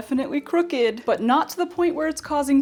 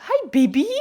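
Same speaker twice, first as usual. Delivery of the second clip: sweet raised greeting to puppy; 4 semitones higher, 6 dB louder than usual. Real, not acted. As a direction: coo hello to the dog. Greeting the dog.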